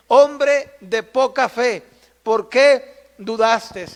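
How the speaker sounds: slow, measured reproach; gentle rebuke. Acted. Jesus to Peter after saving him, slow reproach. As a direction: reproach him slowly, weighing each word.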